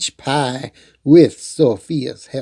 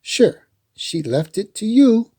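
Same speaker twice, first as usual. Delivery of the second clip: mom voice; 7 semitones higher than usual. A narrator's reading. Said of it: "her mom said".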